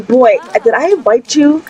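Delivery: put-on a touch of scolding the boy; mildly indignant question. Mother scolding the boy who broke in, mild indignation. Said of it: "I am super upset right now".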